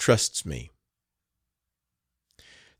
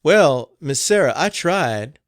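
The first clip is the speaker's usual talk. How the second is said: a touch of a higher, louder plea; pleading cook; 6 semitones higher, 7 dB louder, slower than usual. A narrator's reading. The cook defends her cooking to the madam, pleading.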